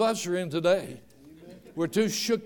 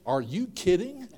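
laughing punchline. Retold or imitated. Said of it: "sometimes he says".

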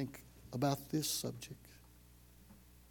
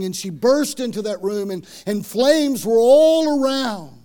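loud, rising preacher's climax; building sermon climax; preaching at full force; 4 semitones higher, 11 dB louder than usual. Acted. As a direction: drive the fire rescue home at full force. Preaching climax of fire story.

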